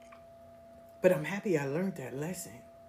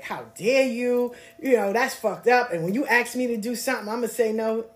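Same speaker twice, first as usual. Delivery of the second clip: hurt indignation; 3 semitones higher, 3 dB louder than usual. Retold or imitated. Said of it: "I was in my feelings".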